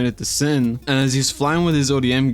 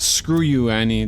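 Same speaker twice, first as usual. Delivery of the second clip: mock insult. Real, not acted.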